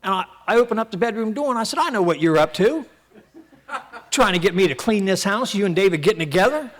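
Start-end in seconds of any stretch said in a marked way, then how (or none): 1.8-6.7 laughing accusation. Retold or imitated. Accusing wife while laughing.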